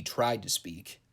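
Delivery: "tried" leaned on, slowed down; stress on TRIED. Real, not acted. Reviewer mocking a wrestler who tried to speak, stressing "tried". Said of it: "emphasis on tried".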